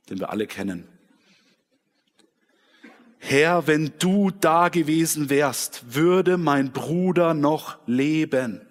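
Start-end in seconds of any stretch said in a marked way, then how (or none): 3.2-8.6 slow, louder, pleading lament lifted higher; heart's cry. Acted. Maria falls at Jesus' feet, slow, louder grieving cry. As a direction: cry it out to him like a grieving sister. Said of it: "Das ist dieser Herzensschrei".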